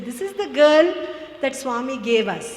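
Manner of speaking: put-on "girl" lifted with a quick questioning rise; brisk rise on "girl"; rising on girl. Shown as a demonstration. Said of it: "there are two ways they can say".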